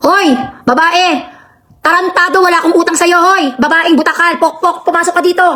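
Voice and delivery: angry yelling. Real, not acted. Streamer yelling at woman off-camera, furious. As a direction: bellow her inside, cursing. Yelling at Beverly during live.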